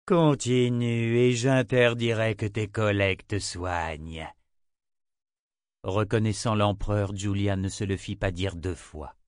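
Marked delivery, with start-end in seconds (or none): 0.0-4.3 slow, commanding emperor's voice; slow possessed threat; voice not her own. Acted. The emperor speaking through Armina, slow and cold. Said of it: "d'une voix qui n'était pas vraiment la sienne".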